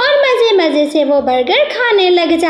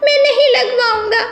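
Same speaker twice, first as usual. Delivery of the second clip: put-on much higher, pleading child voice refusing a shot; a scared small child begging his papa, pitched way up; frightened little boy; 7 semitones higher than usual. Parrot's child refuses injection.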